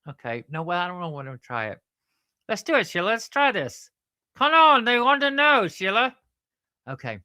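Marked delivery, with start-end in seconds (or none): 2.5-6.1 high, increasingly loud puppet voice; eager puppet, urging. Acted. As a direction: egg your partner on loudly. Puppet character eggs Sheila on.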